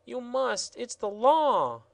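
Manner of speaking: a hint of a fussy gardener; exclaimed. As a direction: lay down the law. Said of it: "exclaimed the gardener".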